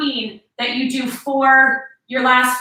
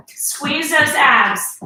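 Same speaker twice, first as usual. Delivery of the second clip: slow drawn-out workout cue; gym coach; 3 semitones higher, much slower than usual. Acted. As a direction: stretch the words to pace the rep. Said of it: "instructor cueing an exercise".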